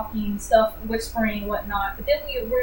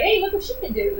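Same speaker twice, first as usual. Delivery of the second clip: mock eager pitch; 8 semitones higher than usual. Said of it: "be like".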